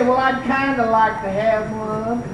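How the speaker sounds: meek, unassertive wish; mock half-hearted. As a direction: imitate a timid, noncommittal request. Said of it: "I didn't say".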